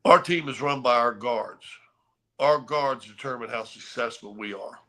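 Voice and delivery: low, measured captain's warning, only hinted; a hint of a stern team leader laying down the law; lightly voiced Laimbeer. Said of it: "he said it just like that".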